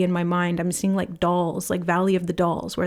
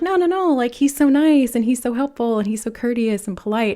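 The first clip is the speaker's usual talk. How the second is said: people defending him; 4 semitones higher than usual. Retold or imitated. Everyone defending the creepy kid, gushing protest. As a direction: gush that he's so nice. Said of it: "everyone was like".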